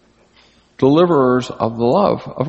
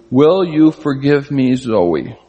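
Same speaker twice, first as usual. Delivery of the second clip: deliberate apology; slower than usual. Acted. Voices grandson apologising to sister.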